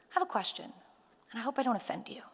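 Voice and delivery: hushed. Retold or imitated. Man leans in, asks cautiously.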